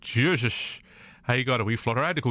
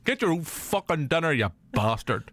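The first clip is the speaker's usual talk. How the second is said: butler voice; 4 semitones higher than usual. Pretend. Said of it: "where the voice is going".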